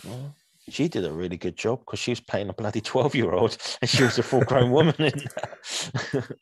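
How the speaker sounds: words breaking into a laugh; amused outburst about the casting. Real, not acted. Amused at adult playing a child.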